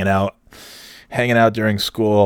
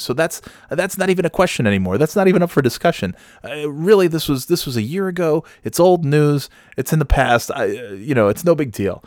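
higher, nervous backpedaling; 4 semitones higher than usual. Retold or imitated. Narrator backpedals to an upset Nate, higher nervous voice. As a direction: scramble to smooth it over, pitched up. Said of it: "I just started backpedaling".

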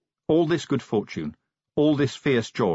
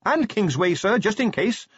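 high, raised call; carrying voice, pitched up; shouting down; 10 semitones higher than usual. A narrator's reading. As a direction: call it down over the racket. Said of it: "Carrot shouted down".

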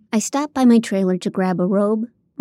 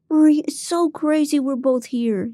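mouthed; 7 semitones higher than usual. Acted. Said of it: "he mouthed back".

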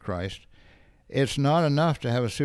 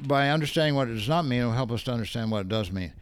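fast skimming aloud; faster than usual. Real, not acted. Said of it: "I'm gonna go through this quickly".

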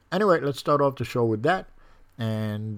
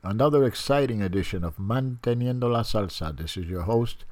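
stuffy nose; 4 dB louder than usual. Real, not acted. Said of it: "if I sound a little stuffy, it's because I am".

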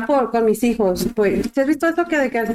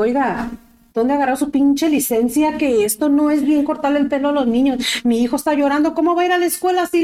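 raised, indignant complaint to the stylist; retold scolding; 3 semitones higher than usual. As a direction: scold the hairdresser, higher and rising. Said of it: "le grité a la señora". (regaño indignado a la estilista, en voz alta)

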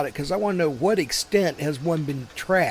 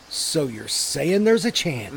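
goofy hopeful Jim Carrey; 3 semitones lower, slower than usual. Retold or imitated. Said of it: "he breaks out with a goofy smile and he goes".

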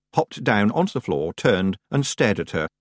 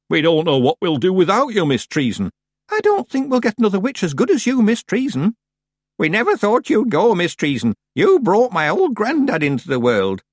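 grieving villagers; 10 semitones higher, 5 dB louder than usual. Acted. Villagers mourning the witch.

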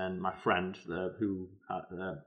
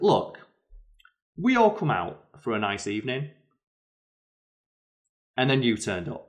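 firm dressing down; 2 semitones higher, 5 dB louder than usual. Retold or imitated. Woman calling out drunk man.

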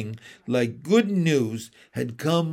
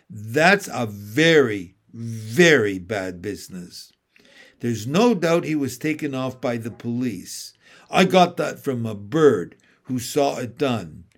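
lightly voiced grave beaver; 4 dB louder than usual. Beaver voiced in read story.

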